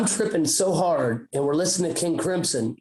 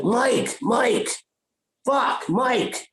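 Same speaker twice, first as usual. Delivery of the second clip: higher-pitched mock calling out; half-voiced yell into the distance; calling for lost buddy; 5 semitones higher, much slower than usual. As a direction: call out for a missing friend, retold. Calling lost buddy while struggling in sand.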